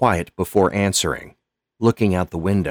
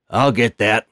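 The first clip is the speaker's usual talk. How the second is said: Lonnie calling out; 5 semitones higher, 5 dB louder than usual. Acted. Custodian Lonnie calls out.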